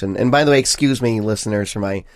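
stuffy nose from a cold; nasal voice. Real, not acted. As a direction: talk through a blocked nose. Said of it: "nasally voice. I am sick".

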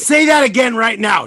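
loud excited demand; shouting. Real, not acted. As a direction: call it out loud and sharp. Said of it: "I was like".

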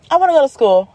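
a hint of a child's voice; lightly voiced child. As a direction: pipe up like an eager little one. Acting her children's plea.

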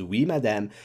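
lightly voiced French shop woman; French-accented, polite little reply. Shop woman answering Anne, in a light French accent. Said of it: "I can do this accent".

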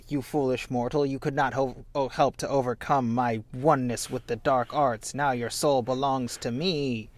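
villain voice. Acted. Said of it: "she's fully playing into it".

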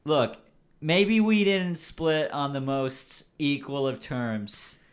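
put-on slow, loud California surfer accent; SoCal surfer accent. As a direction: draw it out like a SoCal surfer explaining himself. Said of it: "I'm doing the stereotypical SoCal surfer accent".

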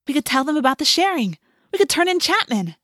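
high, emphatic eagerness; eager excitement. A narrator's reading. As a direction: pile on ideas, pitch climbing. Rachel eagerly joins the plan.

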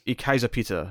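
rough, loose German accent; attempted German accent. Shown as a demonstration. Showing co-host their put-on foreign-language voice, attempted German accent. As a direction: put on a not-quite-accurate German accent. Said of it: "an accurate German accent".

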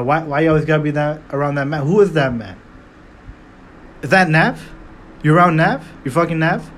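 a light, fast mock of a rapper's jealous whining. Mocking the rapper quizzing her about her life, lightly whiny. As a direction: rattle off jealous questions as a hurt ex. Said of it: "That's the funniest shit ever".

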